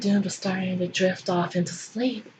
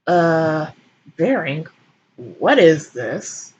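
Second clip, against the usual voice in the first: confused; 3 semitones lower, 4 dB louder, much slower than usual. Acted. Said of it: "said in a confused tone".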